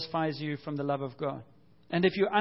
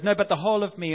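louder protesting Peter; a hint of anxious Peter pleading; mock Peter protest; 3 semitones higher, 6 dB louder, faster than usual. Preacher voicing Peter's protest, a touch louder. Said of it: "Peter, who goes".

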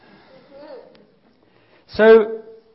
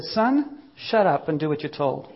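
bossy mother. Retold or imitated. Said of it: "Mary looked at Jesus and said".

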